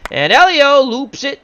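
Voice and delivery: sudden high, loud jump; excited hit call. Pretend. Announcer follows Elio's looping hit, suddenly excited. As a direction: lift it sharply as the ball flies.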